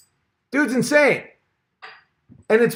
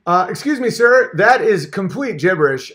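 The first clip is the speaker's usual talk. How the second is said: indignant interviewer; 3 semitones higher than usual. Pretend. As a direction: demand a real answer, affronted. Mock interviewer again.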